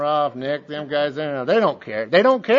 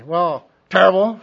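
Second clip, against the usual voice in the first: sullen answer; 6 dB louder than usual. Retold or imitated. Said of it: "I say".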